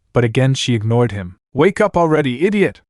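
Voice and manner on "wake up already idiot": rising to a high shout on idiot; frantic shout. Acted. Naruto to Anna, frantic shout. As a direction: demand she wake. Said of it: "Naruto shouted".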